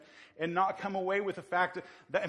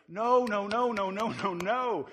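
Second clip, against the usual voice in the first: emphatic refusal; 5 semitones higher, 5 dB louder, slower than usual. Real, not acted. Preacher rejects the objection.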